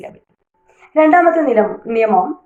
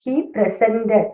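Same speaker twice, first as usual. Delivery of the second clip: presented said slowly, SENT stressed; verb stress, second syllable; 3 dB quieter, much slower than usual. Shown as a demonstration. Teacher repeats the verb for learners, presented stressed on SENT. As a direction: draw out and stress the middle of presented. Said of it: "സെന്റിൻ്റെ അടുത്താണ്".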